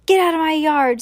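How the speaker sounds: high, loud order to leave; shout. A narrator's reading. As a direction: shout it across a yard. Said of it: "shouted Eugenia".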